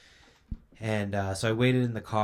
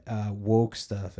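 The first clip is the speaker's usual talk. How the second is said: sarcastic; 4 dB louder, much slower than usual. Retold or imitated. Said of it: "as they like to say".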